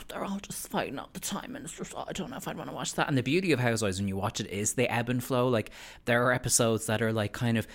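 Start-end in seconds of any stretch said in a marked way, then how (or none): 0.1-3.1 high, soft, hesitant complaint; mock reluctant viewer. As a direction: lightly imitate someone put off by the fighting. Voices reluctant would-be viewers.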